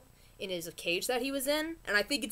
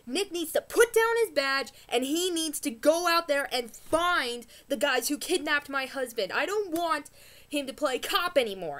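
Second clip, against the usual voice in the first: raised, louder outburst; mock angry snap; 3 semitones higher, 4 dB louder than usual. Wife snapping at friends about the badge, raised and sharp. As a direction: snap at him like an upset wife. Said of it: "she snaps and says".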